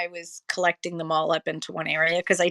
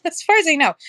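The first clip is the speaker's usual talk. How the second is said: laughing; 8 semitones higher, 7 dB louder, faster than usual. Real, not acted. Laughing repeat of own hedge.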